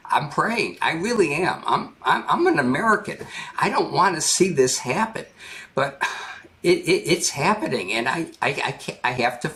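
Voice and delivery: emotional, lost for words; real choked up. Real, not acted. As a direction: plead earnestly, stumbling as the words fail you. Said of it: "I'm almost teary-eyed talking about this".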